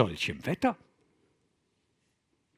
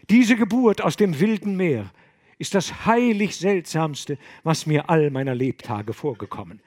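louder, higher marvelling abbot; awed wonder; 4 semitones higher, 6 dB louder than usual. Acted. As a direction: marvel with reverence.

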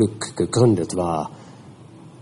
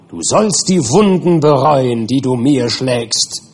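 higher and louder vengeful curse; raging creature's curse; 4 semitones higher, 4 dB louder than usual. Acted. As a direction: curse your maker with helpless fury. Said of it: "vor ohnmächtiger Wut".

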